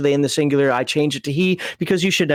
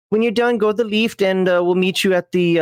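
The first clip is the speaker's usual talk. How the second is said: put-on Southern accent; 3 semitones higher than usual. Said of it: "I can't do the Southern accent".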